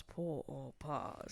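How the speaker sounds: deep, very slow announcer voice; game show announcer. Shown as a demonstration. Host introduces her new game to her co-host, booming and slow. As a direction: boom out the game's name like a trailer voice. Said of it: "what I'm gonna call pour or pass".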